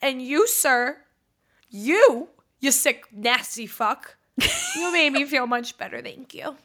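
high, loud, tearful-sounding thanks; mock grateful gushing. Woman gushing thanks at a catcaller, high and teary. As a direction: gush your thanks like he saved your day.

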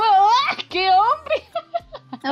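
high, loud mock swoon over a handsome man; dreamy exclamation at first sight of him; swooning gasp. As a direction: gush like you just saw a gorgeous guy. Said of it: "Y yo como".

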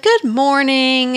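lightly acted cheery greeting, drawn out slowly; excited, cheery. She greets everyone in a cheery mood, lightly acted cheer. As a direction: sing out a mock-cheerful morning greeting. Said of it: "She's all excited".

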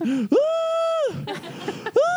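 imitating mom's gasping wails; short breathy "Ah!" bursts, like laughing hard; mom's gasping sounds, imitated; mock gasping laugh. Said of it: "you hear this".

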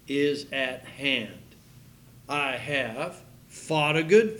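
slowing, weighty reading toward the end; solemn scripture reading, slowing down. Acted. Preacher reads scripture aloud.

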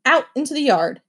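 a hint of barking orders; lightly voiced drill sergeant mom. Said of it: "Mom deployed her drill sergeant voice".

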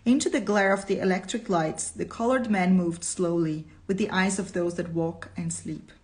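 measured, expressive storytelling; deliberate reader's voice with lifted key words; story narration. A narrator's reading. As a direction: read it out as dramatic narration.

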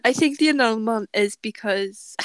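a touch of Welsh lilt; accidentally Welsh-sounding; Welsh accent. Real, not acted. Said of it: "I sounded really Welsh there".

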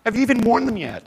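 bright high coaxing voice; pitched well up, gently urging her to keep them; imagined Jesus coaxing. Pretend. Jesus coaxing the woman to keep her shoes, high and gentle. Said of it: "He would sit there and go".

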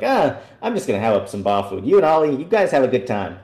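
casual, uncaring brush-off to the party; a friend's character dismissing the party's danger, lightly voiced; Dremis. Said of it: "that was a really good Dremis impersonation".

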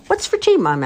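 put-on high, loud little girl's question; child's voice. A narrator's reading. A daughter asks her mum about tea, high and loud. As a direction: ask it like an eager small girl.

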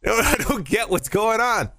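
high-pitched incredulous rant; comic disbelief. Pretend. Baffled co-host questioning how a priest affords prostitutes, comically incredulous. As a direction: squeal in baffled mock outrage.

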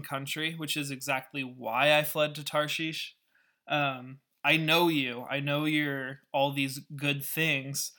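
Jonah vents his anger and begs to die; furious Jonah. Retold or imitated. Jonah furiously complaining to Yahweh, mildly acted anger. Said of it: "he's furious about it".

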